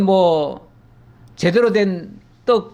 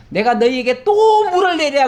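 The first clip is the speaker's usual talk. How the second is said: mock outburst, higher and louder; imitating angry Moses; 7 semitones higher, 3 dB louder than usual. Preacher acts out Moses fed up with the people, angry. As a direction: act out Moses losing his temper, pitch jumping up. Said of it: "그러면서 성질 내가지고".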